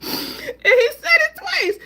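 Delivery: high, loud wheezing laugh; laughing so hard it turns to a cry; crying with laughter. Real, not acted. Laughing helplessly while telling viewers about the clip.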